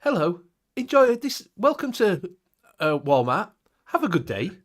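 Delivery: high, lightly put-on cheery greeter; a hint of an over-friendly greeter; posh greeter. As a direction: greet shoppers with hammed-up cheer. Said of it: "he'll go up to people and go".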